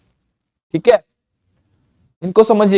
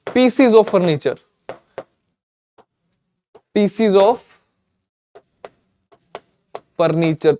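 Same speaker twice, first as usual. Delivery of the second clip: slow dictation; much slower than usual. Shown as a demonstration. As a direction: dictate "Pieces of furniture" word by word, very slowly. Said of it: "मैं बोलूंगा".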